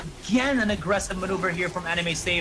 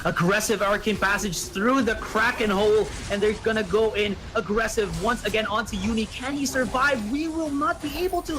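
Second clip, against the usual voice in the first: higher-pitched, urgent esports commentary; excited play-by-play; 5 semitones higher than usual. Real, not acted. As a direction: call the fight as it surges. Live play-by-play of a team fight.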